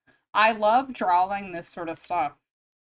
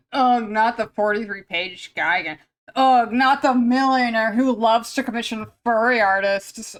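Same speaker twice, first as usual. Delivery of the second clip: mock disgust; 5 dB louder than usual. Mock-complaining about good clients.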